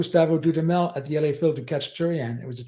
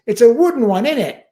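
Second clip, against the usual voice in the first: mock working-class retort, higher and louder; a smart-aleck English quip, pitched up; imitating a violinist's cheeky answer, higher; cheeky reply; 8 semitones higher, 8 dB louder than usual. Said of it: "He goes".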